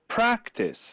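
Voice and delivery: practice, high PRAC, falling away; stress on first syllable. Shown as a demonstration. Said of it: "mark the stressed syllable".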